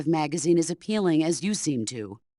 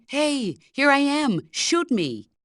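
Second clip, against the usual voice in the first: higher, louder mock call to the enemy; mock cheerful hey, a bit louder; mock taunt; 7 semitones higher, 4 dB louder, slower than usual. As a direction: toss it off like a careless fool begging to be shot. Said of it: "It's like saying to the enemy".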